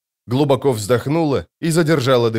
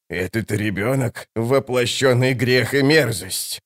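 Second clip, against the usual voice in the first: put-on old woman hissing slowly at the child; slower than usual. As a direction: hiss it out with loathing. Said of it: "прошипела старуха".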